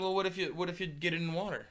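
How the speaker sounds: lightly voiced doubting friend; skeptical quote. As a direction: poke a hole in the claim. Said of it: "So he's like".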